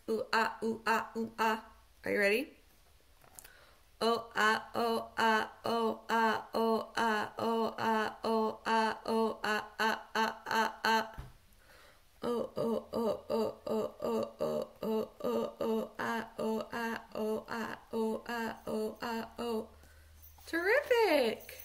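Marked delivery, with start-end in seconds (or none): 0.1-1.6 flat robotic robot voice; robot voice chanting vowels. Shown as a demonstration. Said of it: "Now in your best robot voice". 4.0-19.7 low monotone robot voice. Shown as a demonstration. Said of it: "Now in your best robot voice".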